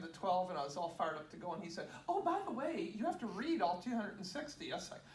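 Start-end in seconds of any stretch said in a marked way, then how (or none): 2.1-4.7 lilting, higher-pitched quote of an offhand demand; mock-casual afterthought. Teacher springs more reading on her, mock-casual afterthought. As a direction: imitate someone breezily springing extra work.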